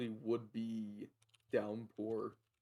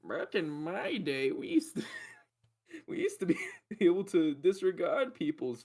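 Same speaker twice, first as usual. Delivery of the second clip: lightly voiced grumpy grandpa, laughing; old man voice; 5 semitones higher, 4 dB louder than usual. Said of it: "doing the old man voice".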